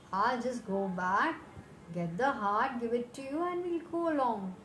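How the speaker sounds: monkey bluffing to save his life; quick-witted monkey. Acted. Clever monkey tricks crocodile.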